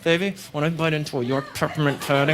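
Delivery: low, seductive line; sexy voice. Shown as a demonstration. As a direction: try to sound sexy. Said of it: "a sexy way of talking".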